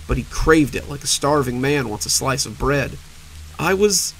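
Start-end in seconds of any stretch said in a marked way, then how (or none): 3.6-4.1 fading, high and frail; weakening voice. Acted. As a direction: strength draining away. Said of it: "Her voice was becoming weaker".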